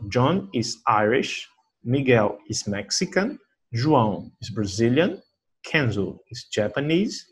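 slow, careful teacher read; slow model reading. Shown as a demonstration. Teacher reading example sentences slowly for students. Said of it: "reading examples for students".

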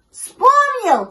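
very high, loud excited cry; thrilled little pup's yell; puppy shouting. A narrator's reading. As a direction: burst out with sudden discovery. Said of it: "закричал щенок".

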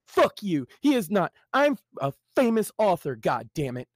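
half-hearted furious outburst; furious yell. Acted. Jimmy snapping at his brother, mildly mock yelling. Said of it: "Jimmy yelled furiously".

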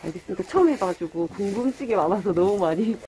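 muffled behind cloth mask; speaking with covered mouth; through a face mask. Real, not acted. Seen 4: Checked cloth mask covers her mouth and nose throughout.

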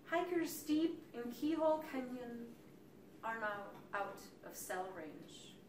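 hushed verse, falling away at the end; poem reading. Acted. Poet tells of hikers out of cell range, hushed recital. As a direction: let the line sink softly. Reads canyon poem aloud.

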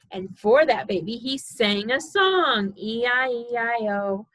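sing-song storybook reading; reading to a toddler. Acted. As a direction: read it bouncy for a baby.

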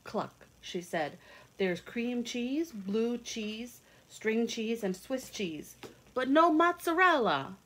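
put-on lively read-aloud for young children; storybook reading. A narrator's reading. Reading a picture book aloud to kids, lively storytelling. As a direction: tell it like a bedtime picture book.

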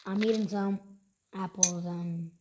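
talking while chewing; crunching through a bite; mouth full. Real, not acted. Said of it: "Sorry for all the crunching sounds".

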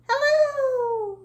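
very high, loud drawn-out squeal of greeting; as high as possible. Shown as a demonstration. Teacher showing children opposite hellos, as high as possible. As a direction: send it right up to the top of your range. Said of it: "as high as we can".

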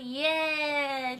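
stretched playful yay; slow cheer. Real, not acted. Idol cheering a fan's birthday message. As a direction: cheer it out slowly.

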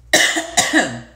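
loud dry cough; coughing fit. Real, not acted. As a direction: cough then excuse yourself. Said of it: "Excuse me".

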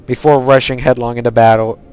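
put-on lightly accented Lich King voice, measured and even; solemn quest read in a put-on villain accent; put-on Death Knight accent. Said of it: "I do actually like talking in that accent".

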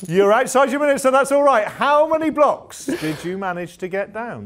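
loud, high, triumphant presenting; big game show host cheer; excited host congratulations. Acted. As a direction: celebrate loudly over the finish. Host cheers as time runs out.

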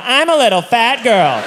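mock-pathetic forced confession; humiliated admission. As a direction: repeat it meekly, drawn out in defeat.

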